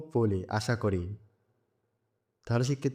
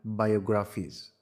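বায়োগ্রাফিস with weight from গ্রা onward; stress on গ্রাফিস; 2 semitones lower than usual. Shown as a demonstration. Teacher showing capital-letter stress, গ্রাফ stressed in বায়োগ্রাফিস. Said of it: "এই শব্দগুলোকে জোর দিয়ে পড়তে হবে".

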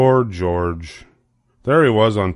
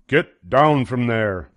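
mild order; 4 semitones higher, slower than usual. Acted. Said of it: "ordered one of them".

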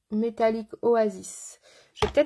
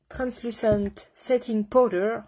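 slow, mock English accent on the product name; exaggerated English accent, drawn out; slower than usual. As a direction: say it like a posh English ad. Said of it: "vous avez vu cet accent de fou".

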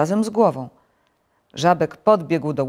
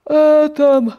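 loud, high sleepy groan; grumpy sleeper's moan; 11 semitones higher, 11 dB louder, much slower than usual. A narrator's reading. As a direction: groan it out like someone dragged from sleep. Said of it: "odpowiedział senny głos".

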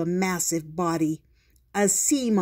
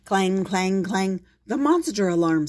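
excited alarm call; 2 semitones higher, 4 dB louder than usual. Acted. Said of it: "said Duff".

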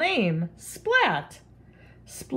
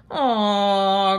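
groan; 4 dB louder than usual. Acted. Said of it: "groaned Splat".

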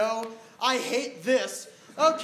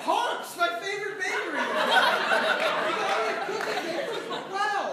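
delighted; 7 semitones higher than usual. Acted. Delighted by cake.

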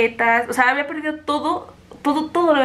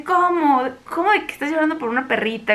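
mock insensitive mom; 4 semitones higher than usual. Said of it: "Mi mamá así toda insensible".

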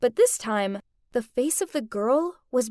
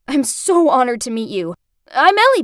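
thrilled introduction; 7 dB louder than usual. Acted. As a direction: introduce yourself, bursting with excitement. Thrilled girl introduces herself to director.

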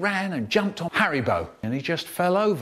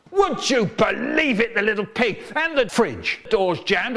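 indignant rant; 4 semitones higher than usual. Acted. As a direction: rant about the little culprit. Ranting at Haribo the culprit.

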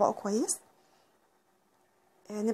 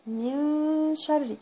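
very slow drawn-out من شر; slow chanted model; slow recitation; much slower than usual. Shown as a demonstration. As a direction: stretch each syllable like recitation.

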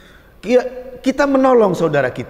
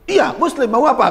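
higher, defiant comeback with a laugh; defiant retort; 6 semitones higher than usual. Retold or imitated. Offended passenger answers back, mock-defiant. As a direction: snap back as if ready to fight. Ini bahaya ini.

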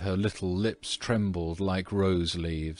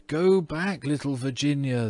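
much higher little voices crying out; tiny huntsmen warning Virginia, higher and crying out; 7 semitones higher than usual. A narrator's reading. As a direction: call her back like tiny tapestry figures. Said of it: "they cried".

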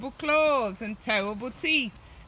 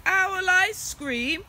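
slow, higher, aghast; shocked owl; 8 semitones higher, 3 dB louder, slower than usual. Acted. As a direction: drag it out in horror. Owl shocked at own fate.

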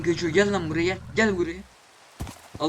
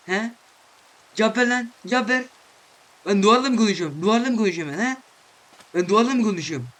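mock scolding; 3 dB louder, faster than usual. Gamer scolds his camel for not answering, mock angry. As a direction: demand an answer, half joking.

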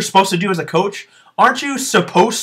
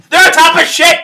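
louder, higher, fed-up retort; pitched-up angry jab; angry outburst; 7 semitones higher, 5 dB louder than usual. Real, not acted. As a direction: snap back in real frustration. Angry correction of own quote.

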